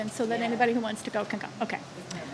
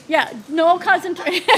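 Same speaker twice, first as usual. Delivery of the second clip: laughing; 3 semitones higher, 5 dB louder than usual. Real, not acted. Chair laughing at herself.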